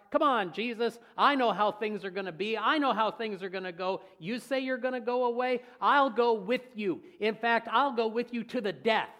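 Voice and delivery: loud, cocky boasting; a know-it-all disciple insisting on his loyalty; braggart. Retold or imitated. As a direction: brag that you know better. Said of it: "the word braggart".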